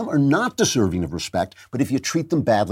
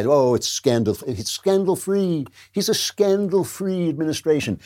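mocking the press; 5 semitones higher than usual. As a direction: sneer it like a fawning reporter. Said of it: "And the press went by".

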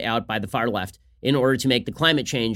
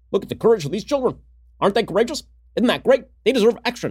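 high, gushing mock-admiring voice; mock Barack Obama; 7 semitones higher than usual. Host mocks Obama praising the kids, high gushing voice. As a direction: lay on the fake awe thick. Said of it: "Barack Obama going on Twitter".

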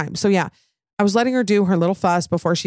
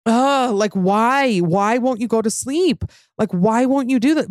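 a tired groan of exasperation pitched up; exasperated venting; 4 semitones higher than usual. Retold or imitated. Mom at night voicing her frustration at her crying baby, exasperated.

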